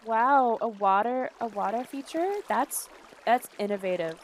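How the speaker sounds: loud fake-impressed gush over a water feature; hammed-up fake admiration; mock awe. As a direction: gush like a polite guest faking awe. Mock compliments to a house.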